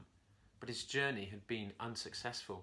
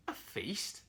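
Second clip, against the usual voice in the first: cool jaguar; 5 semitones higher than usual. Acted. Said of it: "Jaguar coolly commented".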